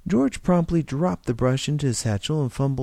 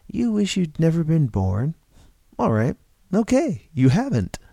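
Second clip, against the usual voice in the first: rising, eager and higher; delighted, as if a problem just solved itself; excited; 4 semitones higher than usual. Acted. Stranger delighted at George's wish, excited and higher. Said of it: "glowed with excitement".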